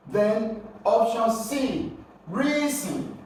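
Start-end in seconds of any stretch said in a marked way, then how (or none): 2.3-3.2 high-pitched REA, falling second syllable in reason; stress on first syllable. Shown as a demonstration. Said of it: "You got to stress the first syllable".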